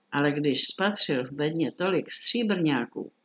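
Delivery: ordinary delivery, nothing marked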